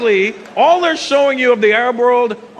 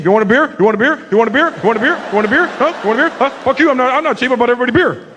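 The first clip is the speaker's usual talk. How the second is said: pushy white guy; 4 semitones higher, much faster than usual. Retold or imitated. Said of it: "That's how white guys get around".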